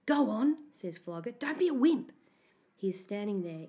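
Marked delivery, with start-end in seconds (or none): 0.1-0.6 goading bully. A narrator's reading. Bully eggs narrator on. 1.3-2.1 higher, louder jeer; goading taunt. A narrator's reading. Bully taunts hesitant narrator.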